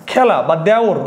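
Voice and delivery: খেলা and দেওর with "æ": khæla, dæor; open ae vowel. Shown as a demonstration. Teacher giving students contrast examples, open ae. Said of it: "জফলা আকারের মতো উচ্চারণ".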